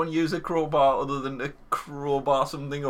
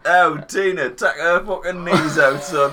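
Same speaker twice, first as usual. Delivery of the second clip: shouting; 6 dB louder than usual. Pretend. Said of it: "set the fucking homeless on him".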